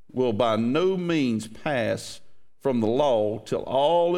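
measured, solemn reading of the verse; scripture reading. Acted. Pastor reading Matthew to the congregation, measured and solemn.

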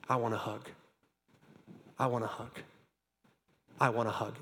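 soft, low, repeated plea; gentle quiet asking for a hug; hushed pleading. Retold or imitated. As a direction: murmur the request like a humble prisoner. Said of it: "hands start going up".

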